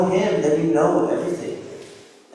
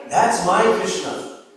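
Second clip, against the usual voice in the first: ecstatic joy; 4 semitones higher, 3 dB louder, slower than usual. Retold or imitated. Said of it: "crying tears of ecstasy".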